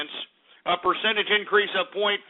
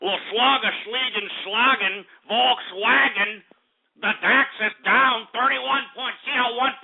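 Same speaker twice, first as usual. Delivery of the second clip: mock German accent; 5 semitones higher, slower than usual. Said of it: "that German accent sucked".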